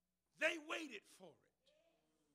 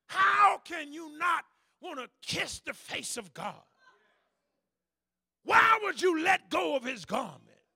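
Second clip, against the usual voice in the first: fervent preaching; 3 semitones higher, 15 dB louder than usual. Real, not acted. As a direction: preach it with full fire. Preaching at full force.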